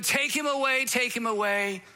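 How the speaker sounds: a hint of an angry crowd; retold crowd shout. Leaders shout back at Pilate, mild mock yell. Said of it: "they shouted".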